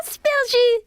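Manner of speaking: crier le mot bien plus haut, ravi; répétition joyeuse. Acted. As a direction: savourer le mot comme un jeu. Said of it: "il le répéta encore et encore". (Caillou, ravi, répète le mot « asperges » bien plus haut)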